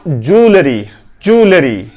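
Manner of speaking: ज्वेलरी as "joo-le-ree"; three syllables in ज्वेलरी, no y glide; correct pronunciation. Shown as a demonstration. Teacher models it for learners, correct pronunciation. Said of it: "ज्यू नहीं कहना".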